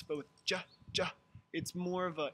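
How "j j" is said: "j" as in jump, no y glide; short clean "j", twice, without the y; clear j consonant. Shown as a demonstration. Teacher contrasting it with jya, clear j consonant. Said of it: "it's a clearer consonant sound".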